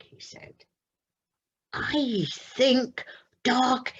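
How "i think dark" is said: delighted. Acted. Plop's final verdict.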